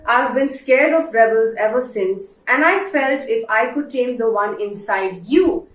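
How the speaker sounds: letter reading. Acted. Reads a father's letter aloud.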